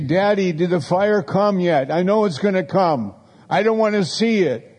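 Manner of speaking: mock a scared little kid pleading with Daddy; childish whine. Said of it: "we are those that say".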